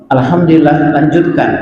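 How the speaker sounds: tired mother barely listening; offhand reply. Retold or imitated.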